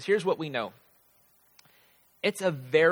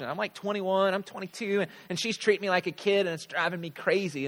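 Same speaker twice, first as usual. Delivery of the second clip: put-on frustrated young adult; 5 semitones higher than usual.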